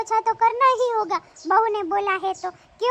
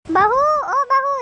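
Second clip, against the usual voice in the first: calling out; 3 semitones higher, 4 dB louder, slower than usual. Acted. Mother-in-law calls her daughter-in-law from another room, loud and drawn out. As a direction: call bahu from across the house, drawn out.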